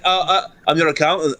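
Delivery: a faltering fake Yank introducing himself; mock American accountant. Accountant greeting a client in a fake American accent. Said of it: "they come in and they're like".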